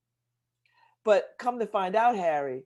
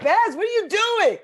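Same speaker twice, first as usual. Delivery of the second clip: higher, louder pushy answer; mock eager reply; 10 semitones higher, 7 dB louder than usual. Mock eager voice of the proposer urging Babs to say yes. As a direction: hurry her into saying yes. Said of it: "You'd be like".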